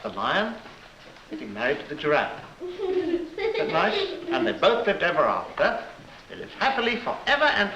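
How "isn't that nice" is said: high, slow, laughing; laughing delight. Real, not acted. Telling the child the happy ending, laughing. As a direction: savour it with a giggle.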